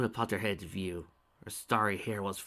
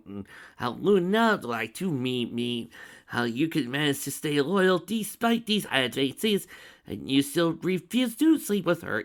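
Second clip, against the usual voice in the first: emotional confession; 5 semitones higher, 6 dB louder, slower than usual. Acted. Emotional in-story confession read aloud.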